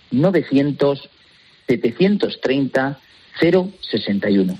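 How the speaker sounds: phone number spaced out slowly in groups; slow repeat. Real, not acted. Guest repeats the free phone number for radio listeners, slowly. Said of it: "Repito despacito".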